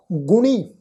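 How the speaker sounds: ਗੁਣੀ with short u and nasalised long ee; nasal ending. Shown as a demonstration. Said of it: "ਬਿੰਦੀ ਲਗਾ ਕੇ ਨਾਸਿਕ". (ਗੁਣੀ ਦਾ ਨਾਸਿਕ ਉਚਾਰਨ)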